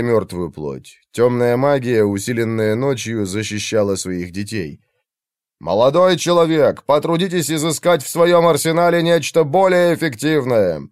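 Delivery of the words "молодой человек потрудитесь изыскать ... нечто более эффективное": raised, higher roaring voice; roaring over the storm. Acted. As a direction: bellow it over the wind. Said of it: "проревел".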